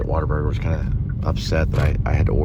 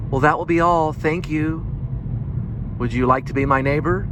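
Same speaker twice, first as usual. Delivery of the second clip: high, sweet, gentle neighborly voice; sing-song kindly TV host; Mister Rogers voice; 9 semitones higher than usual. Retold or imitated. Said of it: "completely Mister Rogers".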